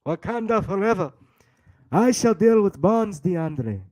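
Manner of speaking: put-on, declarative African accent. Host playing a Wakandan warrior to DeAndre, African accent. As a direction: proclaim it in a mock African accent. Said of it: "It's my African accent".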